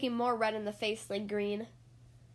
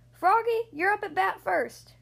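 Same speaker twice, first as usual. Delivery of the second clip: calling out; 6 semitones higher, 3 dB louder than usual. Acted. Coach calling Froggy.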